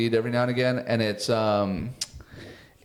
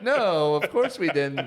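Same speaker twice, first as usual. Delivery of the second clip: higher-pitched mock denial; painting character voice; 5 semitones higher than usual. Podcaster voices tiny painted men denying the shrink ray, painting character voice. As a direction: lightly act out a high-voiced denial. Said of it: "And they're like".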